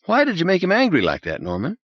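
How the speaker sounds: high, anxious plea; pleading. Acted. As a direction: beg him to take it back. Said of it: "He was almost pleading".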